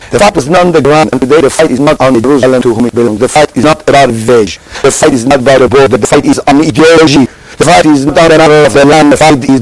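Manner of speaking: rhythmic repeated preaching cadence. Acted. Rabbi preaching to the congregation, building cadence. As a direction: hammer home each line like a sermon.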